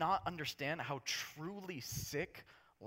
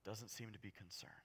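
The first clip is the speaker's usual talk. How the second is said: whisper; 5 semitones lower, 13 dB quieter than usual. Shown as a demonstration. Whispered aside after plain line.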